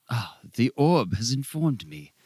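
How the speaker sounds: a lightly voiced fortune teller; mystic oracle. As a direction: announce the prophecy grandly. Ara reads the orb's answer.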